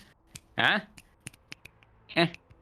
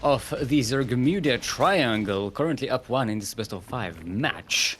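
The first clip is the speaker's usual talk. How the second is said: slow, drawn-out ring announcer build; ring announcer intro; slower than usual. Pretend. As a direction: sell the player to the crowd, slowly.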